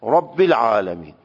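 رب العالمین with a short Arabic "i", Rabbil; Arabic pronunciation. Shown as a demonstration. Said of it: "لهجهٔ عربی اینه که".

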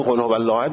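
قل هو الله احد with احد too hard; over-hard letter. Retold or imitated. Teacher mimicking careless reciters. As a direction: clip احد too firmly.

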